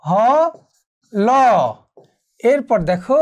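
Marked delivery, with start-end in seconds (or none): 0.1-1.3 হ, long pause, then ল; piece-by-piece model, হ apart from ল; broken into parts. Shown as a demonstration. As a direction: sound হ and ল as two isolated letters. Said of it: "প্রত্যেকটি যদি আমরা ভেঙে ফেলি".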